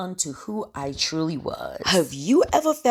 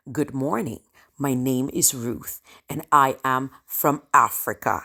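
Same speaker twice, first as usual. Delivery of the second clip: lower, composed self-introduction as a leader; quiet pride; 4 semitones lower than usual. Acted. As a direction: introduce yourself proudly and steadily to the room. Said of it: "The quiet pride".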